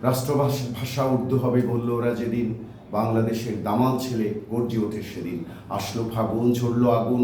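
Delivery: measured, rhythmic verse reading; rhyme recitation. Acted. Poet reads a language-movement rhyme to online audience, rhythmic recitation. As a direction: recite it line by line with a steady beat.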